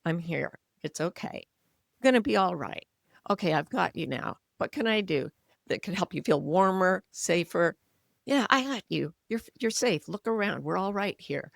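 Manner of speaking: soft, gentle reassurance to a frightened animal; soothing self-talk. Shown as a demonstration. Comforting his own anxious self like a frightened puppy, soft and reassuring. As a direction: hush and comfort like holding a scared puppy. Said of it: "you start to talk to yourself".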